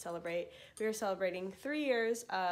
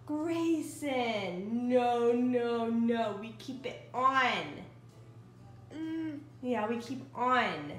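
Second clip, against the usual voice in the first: firm mom warning; 5 dB louder, much slower than usual. Real, not acted. Mother tells toddler keep food on.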